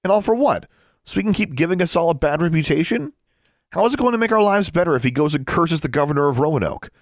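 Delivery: high-pitched accusing questions; heated tirade. A narrator's reading. Sister berating brother over their father, heated.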